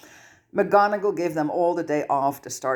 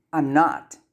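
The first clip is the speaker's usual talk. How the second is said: cold quiet fury; 3 dB louder than usual. Acted. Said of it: "voice cold with quiet fury".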